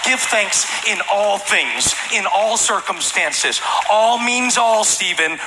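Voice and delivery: mock sanctimonious scripture-quoting; preachy quoting. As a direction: lecture a friend with Bible verses. Mocking preachy believer quoting scripture.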